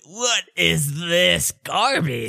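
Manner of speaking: high, drawn-out indignant complaint; slow, put-on voice of appalled disgust; disgusted character voice. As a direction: complain as if you just tasted something foul. GM voices Clue biting bad cookie.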